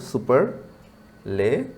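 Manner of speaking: সুপারলেটিভ very slowly in three pieces, সুপার... লে... টিভ; syllable by syllable. Shown as a demonstration. Teacher demonstrating syllables to students, সুপারলেটিভ slowly broken into সুপার, লে, টিভ. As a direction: pause before and after লে in সুপারলেটিভ, drawing it out. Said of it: "একটু উচ্চারণ করার চেষ্টা করুন তো".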